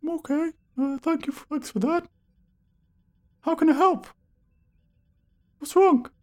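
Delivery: very high, squeaky clown insisting. Acted. Clown insisting to player this is his voice. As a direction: protest innocence in a squeak.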